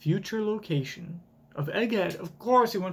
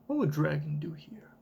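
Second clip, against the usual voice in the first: whisper; 4 dB quieter than usual. Acted. Asks herself under breath.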